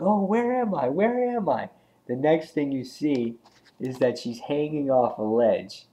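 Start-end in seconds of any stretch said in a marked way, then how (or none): 0.0-1.7 high, dazed waking voice; groggy just woken. Retold or imitated. Kidnapped girl waking up, asks where she is, high and dazed. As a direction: come to in confusion, pitched high. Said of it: "She wakes up and she's like".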